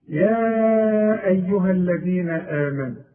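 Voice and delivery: slow measured tajweed recitation; slow recitation stretching يا with a held vowel; Quran recitation. Shown as a demonstration. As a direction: recite slowly, drawing out يا. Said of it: "يا حرف ندى، وده مد منفصل".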